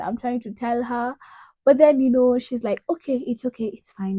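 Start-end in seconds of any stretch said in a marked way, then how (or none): 2.9-4.2 imitating a comforting mother; quiet, retold consolation; soft reassurance. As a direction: soothe gently, voice dropped softer. Mom comforting her, retold.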